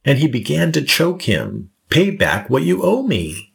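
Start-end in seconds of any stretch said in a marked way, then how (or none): 1.9-3.5 a touch of a hard demand; understated menace, pressing for the debt. A narrator's reading. Servant choking his fellow servant, demanding payback in mild anger. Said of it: "he demanded".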